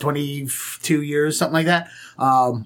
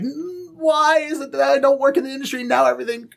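exasperated outburst; 9 semitones higher than usual. Retold or imitated. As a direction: rant at the broken gear. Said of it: "I'm like".

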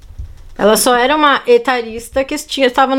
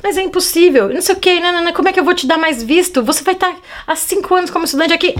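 higher, pushy official voice; mock stern clerk; 6 semitones higher, faster than usual. To the student asking for a visa, a mock stern clerk. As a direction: play the rude visa clerk scolding.

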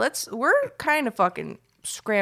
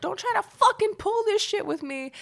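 much higher, put-on scolding aunt voice; imitating Aunt Mickey. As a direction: scold him like a tipsy aunt. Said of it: "She's like".

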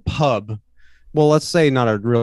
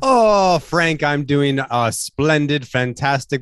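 put-on leprechaun Irish accent; slower than usual. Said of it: "I don't know what accent this is. It's trying to be leprechaun-y".

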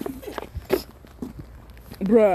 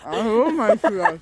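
chewing while talking; 4 dB louder than usual. Real, not acted. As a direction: mouth full of sausage. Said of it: "man spricht nie mit vollem Mund".

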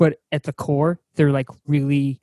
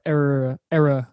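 era slipping into a Boston accent; slower than usual. Real, not acted. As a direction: let the Boston accent slip out. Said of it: "That's my Boston accent coming out".

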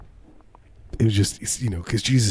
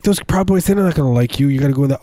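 mock Andy; 4 semitones higher, faster than usual. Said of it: "But he's like".

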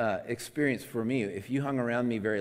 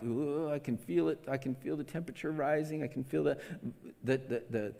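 rising temper; 4 semitones higher than usual. Acted. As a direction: let the heat build as you go. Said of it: "the volume rising".

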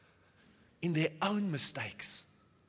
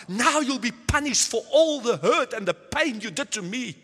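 louder, accusing and punishing; vengeful; 3 semitones higher, 5 dB louder than usual. Pretend. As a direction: threaten them with payback. Imagined vengeful words of Joseph.

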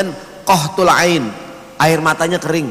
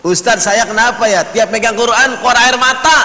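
lightly acted higher-pitched complaint; puzzled congregant; 6 semitones higher, 3 dB louder than usual. Congregant asks ustadz about tears over Quran, lightly acted puzzlement. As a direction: imitate someone earnestly asking the ustadz.

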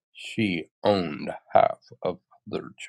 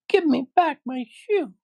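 put-on very high, louder angry girl voice; angry little girl; 5 dB louder than usual. Dorothy confronts the witch over her stolen shoe, angry. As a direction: demand it in a high, indignant child's voice. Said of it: "grew angry".

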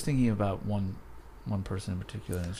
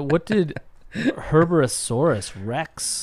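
mock dramatic; 3 semitones higher, much slower than usual. Playful dramatic name reading.

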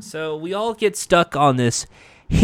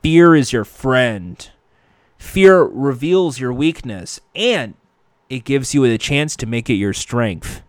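quoting Bruce; 3 semitones lower than usual. Retold or imitated. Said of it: "Bruce used to say".

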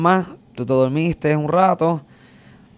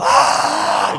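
mock yell; 6 semitones lower than usual. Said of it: "Gritando, pero gritando bien duro".

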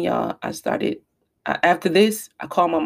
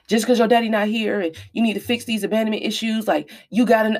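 higher-pitched, mildly scolding; retold cussing out; 4 semitones higher than usual. Mother re-enacts cussing out her teenage son, mild scolding. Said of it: "like, I was cussing him out".

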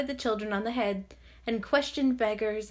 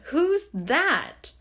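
loud, high, startled query; acted surprised outburst; astonished question; 7 semitones higher, 6 dB louder than usual. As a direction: call out in amazement. Fred startled by his uncle's arrival.

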